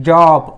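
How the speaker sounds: जॉब slowly with open "aw"; short O modelled. Shown as a demonstration. Teacher showing short O in a word, जॉब drawn out. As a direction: stretch the vowel in जॉब. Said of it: "अ असा उच्चार केलेला आहे".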